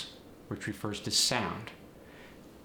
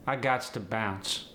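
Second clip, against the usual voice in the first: slow AAVE delivery; AAVE, drawn out; slower than usual. Shown as a demonstration. Teacher showing "gots", slow AAVE. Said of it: "adding S to the word got".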